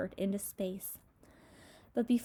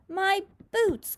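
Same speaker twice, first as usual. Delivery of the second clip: much higher, louder wail; dismayed cry; 11 semitones higher, 6 dB louder than usual. Acted. Centipede wails about his ruined boots, loud dismay. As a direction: howl over the lost boots. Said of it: "cried the centipede".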